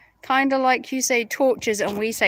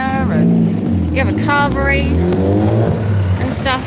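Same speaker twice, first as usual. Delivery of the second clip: mock posh voice; 7 dB louder than usual. Showing off hotel.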